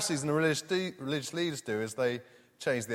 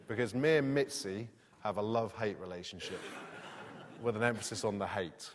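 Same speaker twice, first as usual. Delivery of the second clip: laughing; 4 semitones lower, 8 dB quieter than usual. Real, not acted. Joking about his cat.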